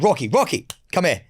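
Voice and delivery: brisk, firm dog call; lightly acted commanding owner; calling a Rottweiler. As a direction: summon a dog that must respect you. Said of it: "So I'd be like".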